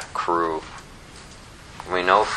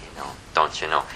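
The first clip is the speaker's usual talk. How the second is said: put-on Wisconsin accent; 7 semitones lower, 6 dB quieter, faster than usual. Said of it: "somebody from Wisconsin".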